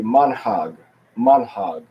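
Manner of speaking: "manhag" said slowly and deliberately; "manhag" with a drawn-out MAHN-hahg; Hebrew pronunciation. Shown as a demonstration. Teacher giving the class the Hebrew word, careful pronunciation. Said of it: "So in the Hebrew, we would say".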